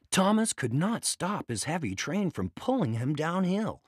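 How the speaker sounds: usual speaking voice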